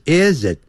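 "is it" run together as one sound; linked is it. Shown as a demonstration. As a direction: glide "is" straight into "it". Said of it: "要连在一起，要发出连音". (is it 连读)

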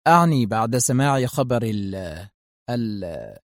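a man breaking off before the painful word; hesitant. Acted. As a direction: stumble and trail off, unable to say it. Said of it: "أجابها في تردد".

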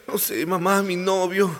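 shy confession through laughter; giggling daughter. Acted. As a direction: giggle it out bashfully. Daughter tells the story, laughing. (hija confesando entre risitas)

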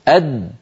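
أد shut tight; pressed final dal. Shown as a demonstration. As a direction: stop the air on أد. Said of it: "جربوا لو سمحتم". (دال ساكنة مضغوطة)

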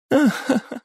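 звонкий высокий смех; смеётся до слёз; ringing laugh. Acted. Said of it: "Звонко засмеялась Хатару". (звонкий смех сквозь слёзы)

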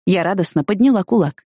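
usual speaking voice

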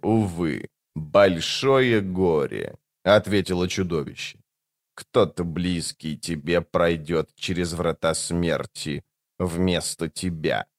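low, very slow, soft monster; creature voice. A narrator's reading. The creature speaks.

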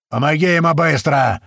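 loud barked order, high; yelling across the yard. A narrator's reading. Master yelling at slave to help the fallen man, loud shout. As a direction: shout it so the whole yard hears. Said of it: "вновь заорал на весь двор".

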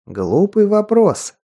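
slow, high, smiling amusement; good-natured smile. Acted. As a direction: greet her like an old friend. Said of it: "добродушно улыбнулся тот". (добродушно, с улыбкой)

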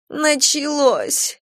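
slow, high sobbed cry; sobbing. Acted. Stepmother on the stretcher sobs, high and drawn out. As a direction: break on the word in distress. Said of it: "всхлипнула она".

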